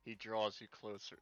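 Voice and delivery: projected read-aloud of a romance scene; narrating a cheesy love scene, a laugh slipping in; story narration. A narrator's reading. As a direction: read the game text out with amusement. Reads game's romance text aloud.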